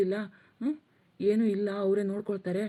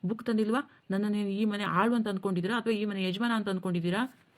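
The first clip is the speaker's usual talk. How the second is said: ranting. Acted. Husband rants at his wife about household demands, mildly irritated. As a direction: complain bitterly about every demand. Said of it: "ಯಾಕ್ರಿ ಇವತ್ತಿಷ್ಟೊಂದು ರೇಗಾಡ್ತಾ".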